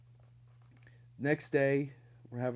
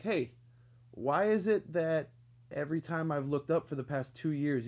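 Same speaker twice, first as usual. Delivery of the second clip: confrontational challenge; 4 semitones higher, 3 dB louder than usual. Retold or imitated. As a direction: call him out to his face. Confronting coworker who stares.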